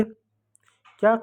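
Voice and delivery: a very slow, stretched क्या, high and soft; drawn-out question. Shown as a demonstration. Teacher stretching क्या to prompt the class, slow and soft. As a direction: hold क्या long to make the kids think. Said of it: "सी को क्या पढ़ेंगे".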